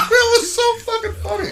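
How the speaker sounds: high, loud words through laughter; real laughter. Real, not acted. Wrestler recalls the gimmick with friends, laughing hard. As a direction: crack up while saying it.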